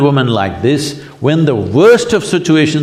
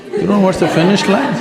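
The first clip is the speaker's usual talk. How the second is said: higher, asked through a laugh; 6 semitones higher than usual. Real, not acted. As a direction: tease it with a chuckle, pitched up. Same question repeated, laughing.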